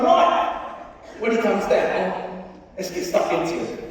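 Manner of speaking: rally the lads to charge; scheming rebel. Retold or imitated. Tindall plotting, retold.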